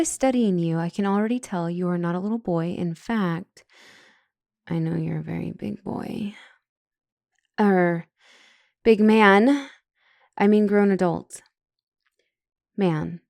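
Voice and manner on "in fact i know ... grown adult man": flustered correction. Acted. Counselor flustered, correcting herself.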